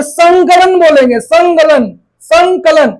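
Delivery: संकलन said "sangkalan"; nasal ng sound. Shown as a demonstration. Teacher models the rule for students, संकलन with ng. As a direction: back ng before क in संकलन. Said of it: "क का पांचवा वर्ण क्या होता है".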